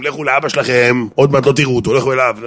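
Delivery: lightly acted maternal outburst; mock indignant wife. Offended wife ordering children to their father, indignant.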